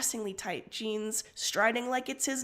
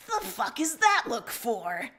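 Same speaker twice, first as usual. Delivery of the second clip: demanding; 3 dB louder than usual. Acted. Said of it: "you demand".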